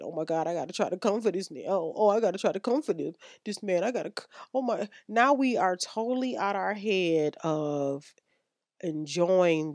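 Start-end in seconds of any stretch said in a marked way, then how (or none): 0.0-4.9 fast, fretful mock panic; frantic inner voice. Woman panicking in her head about coming, fast and fretful. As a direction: race through it like a worried woman. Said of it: "we're in our head thinking".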